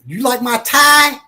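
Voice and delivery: high, eager question; proud stranger. Retold or imitated. Stranger on the street showing off his tie, high and eager. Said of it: "they say".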